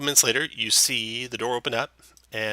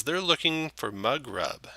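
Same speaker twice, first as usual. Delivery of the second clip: halfling woman; 6 semitones higher than usual. Acted. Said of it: "and she says".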